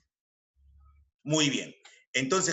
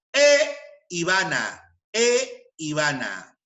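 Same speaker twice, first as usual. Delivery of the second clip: slow, long "e" before "Ivana"; stress on "e"; 4 dB louder, slower than usual. Shown as a demonstration. Teacher drilling e before Ivana, "e" drawn out. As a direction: hold the "e", then say "Ivana". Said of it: "palabras que empiezan por I".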